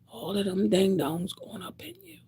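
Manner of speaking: hushed whisper of ding-dongs line; whispered take. Real, not acted. To the women listening, a hushed warning whisper. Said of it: "whispered repeat".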